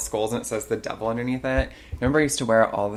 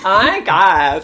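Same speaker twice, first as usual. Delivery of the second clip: put-on Valley Girl accent; 7 semitones higher, 10 dB louder than usual. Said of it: "Valley Girl accent".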